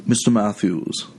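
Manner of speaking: light mock Boston Brahmin accent; Mister Feeney. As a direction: imitate a Boston Brahmin schoolteacher. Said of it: "a Boston Brahmin accent".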